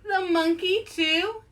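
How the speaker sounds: teaching the refrain, high incredulous rise; mock dismay. Shown as a demonstration. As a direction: draw out the question in mock shock. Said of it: "You guys say it".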